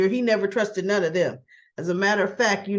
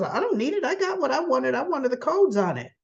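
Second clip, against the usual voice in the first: higher, insistent mock dismissal; dismissive refusal; 5 semitones higher than usual. Villain has his codes already, retold dismissive refusal. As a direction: wave it off, starting high and settling.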